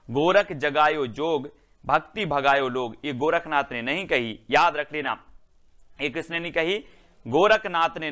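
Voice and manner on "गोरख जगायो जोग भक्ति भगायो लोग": recited verse. Shown as a demonstration. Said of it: "ये पंक्ति बहुत ही बढ़िया है".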